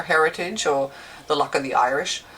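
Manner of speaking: a light, hammed-up Irish lilt; a hint of a put-on Irish accent; bad Irish accent. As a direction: play at being Irish, badly and for fun. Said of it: "that's my really bad Irish accent".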